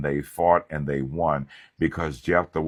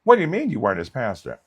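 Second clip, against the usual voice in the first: shocked mock family member; 8 semitones higher, 5 dB louder, faster than usual.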